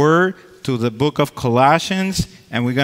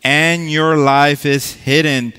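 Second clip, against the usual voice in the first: emphatic, proclaiming Bible reading; scripture reading; 4 dB louder than usual. Acted. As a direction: read the verses out like preaching. Reads scripture from Colossians.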